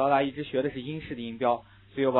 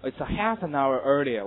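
put-on American accent; slower than usual. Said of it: "经常听到美国人说".

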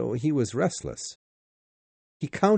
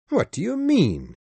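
Sir Francis voice; 10 semitones higher, 4 dB louder than usual. Acted. Sir Francis questions Passepartout.

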